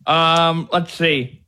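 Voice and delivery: talking around a pen in the mouth. Real, not acted. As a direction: speak with a pen between the teeth. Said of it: "Sorry, I got my pen in my mouth".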